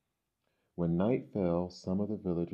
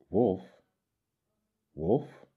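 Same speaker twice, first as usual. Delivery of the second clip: sudden alarmed gasp of a word; startled; 3 semitones higher, 5 dB louder than usual. A narrator's reading. Boy spots real wolf.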